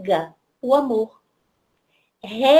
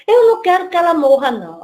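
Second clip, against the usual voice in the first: put-on distressed child; 4 semitones higher, 5 dB louder, faster than usual. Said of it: "chega ela mais uma vez chorando demais".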